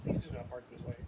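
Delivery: mock note voice. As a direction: play the prissy note writer.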